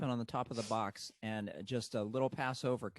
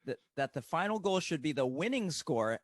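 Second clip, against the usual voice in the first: mock bulletin building to a loud, high finish; announcer voice swelling on the punchline; best announcer voice; 6 semitones higher, 11 dB louder, slower than usual. Shown as a demonstration. Guest lands spoof bulletin's punchline, announcer voice. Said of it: "in your best announcer voice".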